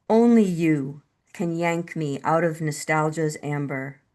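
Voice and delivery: measured poem recital with deliberate pauses; unhurried, carefully phrased poetry voice; poetry reading. Acted. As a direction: read your poem line by line, letting each image land. Reads own love poem.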